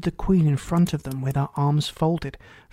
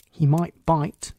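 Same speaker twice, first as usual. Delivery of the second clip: cautious; slower than usual. Acted. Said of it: "Alice cautiously replied".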